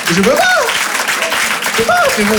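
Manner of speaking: mock high whine. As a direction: squeak out the refusal like a scared kid. (refus geignard très aigu)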